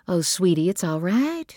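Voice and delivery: lilting comfort, rising high at the end; motherly reassurance. A narrator's reading. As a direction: soothe a crying child. Mother soothes sobbing child.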